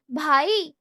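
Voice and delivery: loud pleading cry of a little brother; the voice that dodges every slap; innocent cry. Acted. Youngest brother cries out innocently to escape a beating. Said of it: "آواز میں وہی معصومیت تھی".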